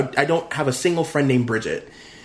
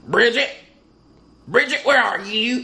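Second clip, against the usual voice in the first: put-on old hillbilly voice, much higher pitch; 7 semitones higher than usual. Retelling a man pounding on the door, in a Wrong Turn hillbilly voice. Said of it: "he sounded like an old, like, I don't know, like one of the hillbillies from Wrong Turn".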